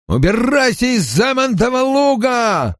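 high, strained farmer's yell; angry shout. A narrator's reading. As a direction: shout it at her to drive her away. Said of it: "кричал женщине угрюмолицый фермер". (сердитый высокий крик)

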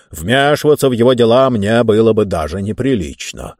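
emphatic, dismissive indignation; lightly voiced self-important ruler; pompous ruler. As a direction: wave the matter off grandly.

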